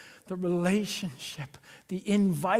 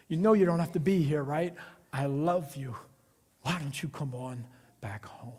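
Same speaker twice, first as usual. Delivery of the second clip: soft, fading, lower plea; gentle call home; 3 semitones lower, 4 dB quieter than usual. Pretend. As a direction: coax a runaway back home tenderly. God gently calling the wanderer.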